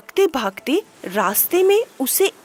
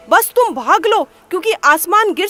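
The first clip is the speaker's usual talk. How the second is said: higher and louder, urgent panic; frantic hare; 7 semitones higher, 3 dB louder than usual. A narrator's reading. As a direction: hare warning uncle bear to run. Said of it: "खरगोश तुरंत बोला". (घबराया हुआ खरगोश, ऊँची तेज़ आवाज़)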